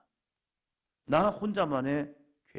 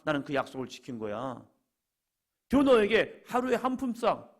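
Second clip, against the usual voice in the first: raised, insistent acted self-defence; emphatic rebuke; 6 semitones higher, 5 dB louder than usual. Master answering a complaining worker about the agreed wage, insistently. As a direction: push back firmly, higher and louder.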